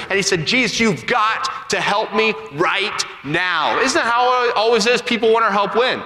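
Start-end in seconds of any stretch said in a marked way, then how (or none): 0.5-3.8 imitating a desperate father, drawn out and higher; desperate plea. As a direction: act out an urgent, slow-stretched plea for help. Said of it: "a little hysterical or desperate".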